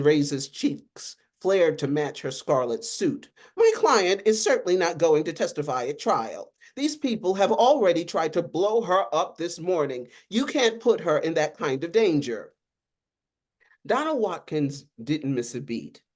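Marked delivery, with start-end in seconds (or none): 3.6-12.5 indignant objection. Acted. Lawyer objects to testimony.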